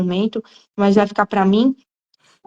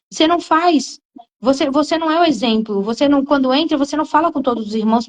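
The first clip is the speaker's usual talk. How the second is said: higher, pressing accusation; preaching rebuke; 4 semitones higher than usual. Real, not acted. Preacher scolding the congregation, high and pressing. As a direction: call them out from the pulpit.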